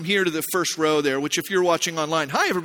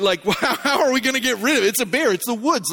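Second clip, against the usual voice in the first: incredulous protest; 3 semitones higher than usual. Retold or imitated. Incredulous protest to maintenance guy.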